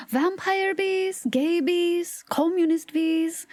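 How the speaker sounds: slow, high, drawn-out listing. Acted. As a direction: stretch each word up high. Repeats the bee list for effect.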